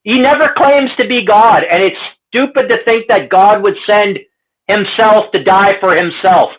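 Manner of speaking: real frustration at a silly idea; worked up. Real, not acted. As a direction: insist on it, still heated. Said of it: "I get all worked up".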